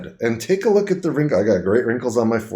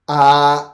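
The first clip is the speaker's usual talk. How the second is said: louder, held "ah"; open-mouthed "ah"; 3 semitones higher, 5 dB louder than usual. Shown as a demonstration. Patient showing the uvula to examiner, open-mouthed "ah". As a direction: say "ah" for a throat check. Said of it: "open up the mouth and say".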